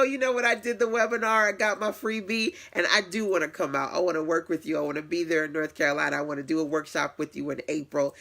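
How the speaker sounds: eager client. Retold or imitated. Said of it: "So you might go".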